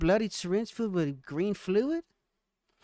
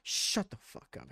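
whispered; 5 semitones lower, 8 dB quieter than usual. Real, not acted. Friends joking during reading.

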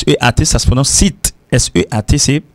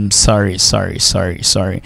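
urgent apology; 4 semitones lower than usual. Shown as a demonstration. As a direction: beg forgiveness with a dropping voice. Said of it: "point d'exclamation derrière".

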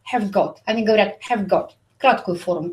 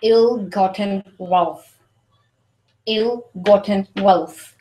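slow model phrase; 3 semitones lower, slower than usual. Shown as a demonstration. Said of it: "For example".

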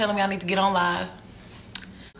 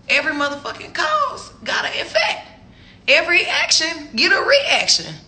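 heated lecture; 5 semitones higher than usual. Real, not acted. Scolding the texter about cause and effect, near-shouting. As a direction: preach it like a fed-up teacher.

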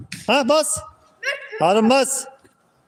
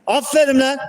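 praising shout; 2 semitones higher than usual. Real, not acted. Coach praising player across pitch.

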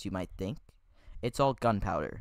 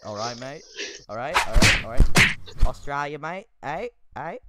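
hammed-up Aussie "mate" talk; mock Australian accent; 7 dB louder than usual. Host geeing up before tasting Vegemite, mock Australian accent. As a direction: toss out bursts of mock Australian.

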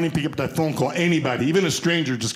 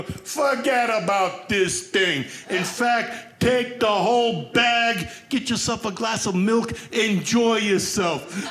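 put-on Italian accent; 4 semitones higher, much slower than usual. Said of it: "they're Italian".

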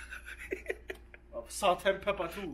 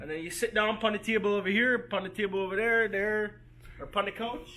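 lightly put-on Caribbean accent; 2 semitones higher than usual. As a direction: tour guide in a mild Caribbean lilt. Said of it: "Can you do it in the accent?".

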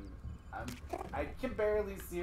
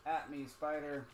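taunting. Pretend. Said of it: "see the dead body of your friend".

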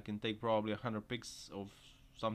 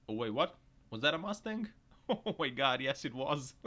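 much higher, laughing disbelief; amazed; 4 semitones higher, 4 dB louder than usual. Real, not acted. Vlogger spotting a crashed Mustang, laughing amazement. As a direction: ask it in giddy disbelief.

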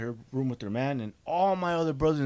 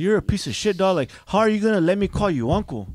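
loud, higher furious outburst; retold angry rant; 3 semitones higher, 5 dB louder than usual. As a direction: unload on him, furious.

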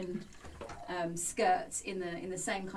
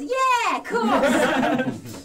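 Frayne's voice; 7 semitones higher, 10 dB louder, much slower than usual. Acted. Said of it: "Frayne says".

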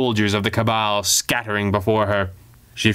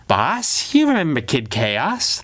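sarcastic; 4 semitones higher, slower than usual. Acted. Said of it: "panted sarcastically".

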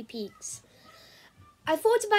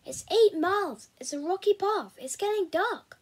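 high, insistent objections; arguing a friend out of it; exasperated protest; 6 semitones higher, 5 dB louder than usual. Acted. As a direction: press each objection with a raised voice. Becky argues against going on.

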